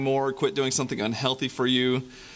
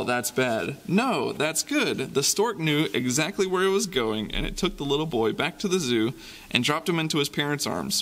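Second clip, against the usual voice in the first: lively storybook reading with sound effects; reading to children. Acted. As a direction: read it like a bedtime picture book for kids. Reading picture book to children.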